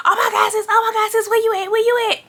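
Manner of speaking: worried friend. Retold or imitated.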